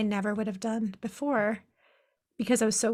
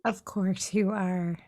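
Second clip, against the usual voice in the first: matter-of-fact; 3 semitones lower, slower than usual. Retold or imitated. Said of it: "so matter of fact about it".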